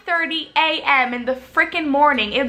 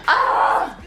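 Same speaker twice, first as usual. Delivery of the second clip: high, breathy yelp; exasperated cry; 11 semitones higher than usual. Real, not acted. Outburst before retelling gate arrival.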